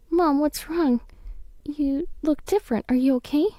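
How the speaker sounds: put-on high, anxious child voice; a frightened kid asking urgently; worried girl. Daughter sees mother falter.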